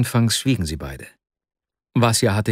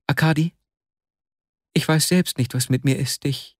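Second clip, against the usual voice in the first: distressed confusion; 4 semitones higher than usual. Acted. Distressed Vasja confesses confusion to friend.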